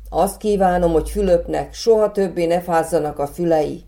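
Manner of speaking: put-on boy calling his wish out to the fairy; eager exclamation. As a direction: call out the wish with excitement. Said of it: "kiáltott fel".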